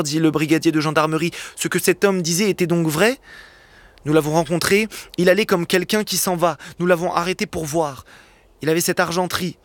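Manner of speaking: narration posée, lecture à voix haute; lecture de roman. A narrator's reading. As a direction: raconte la scène au public comme un conteur. (lecture de Victor Hugo, ton de conteur)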